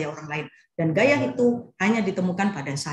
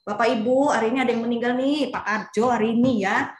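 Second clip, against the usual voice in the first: casual announcement; 3 semitones higher than usual. Shown as a demonstration. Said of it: "Nggak mungkin kan orang takmir itu ngomongnya".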